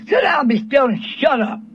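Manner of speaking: retold rough scolding. Fed-up father to his naughty daughter, roughly scolding. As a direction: order the child about, as retold. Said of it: "I was just as rough".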